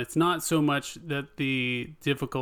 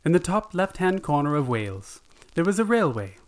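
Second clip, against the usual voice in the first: put-on gentle Welsh narrator, reading a children's tale; Welsh storyteller voice; 2 semitones higher than usual. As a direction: tell it like the old Welsh TV storyteller. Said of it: "and you sound just like him".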